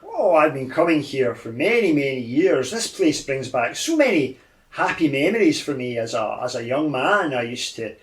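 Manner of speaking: lightly voiced wistful old gentleman; lost old man, reminiscing. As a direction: ramble fondly like a harmless old man.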